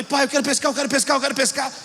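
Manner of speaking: quick repeated nagging, words run together; retold little boy's insistent begging; pestering child. Boy nags his father to take him fishing, pestering.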